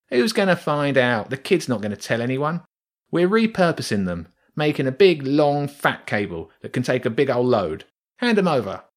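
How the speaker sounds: a rat showing off the big cable; boasting rat. Acted.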